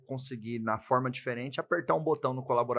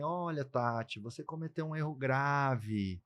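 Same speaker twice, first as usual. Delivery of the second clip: measured reprimand; 3 dB quieter, slower than usual. Acted. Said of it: "se você chegar e falar assim".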